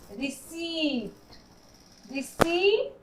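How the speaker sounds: slow, drawn-out "रिसीट" with no p; silent p. Shown as a demonstration. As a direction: stretch the long ee in "रिसीट", p left out. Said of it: "यहाँ पी का sound नहीं है". ("रिसीट" धीरे, प की आवाज़ के बिना)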